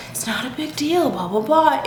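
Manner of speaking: mock a guy waving it away; dismissive guy. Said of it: "Guys will cancel on you and be like".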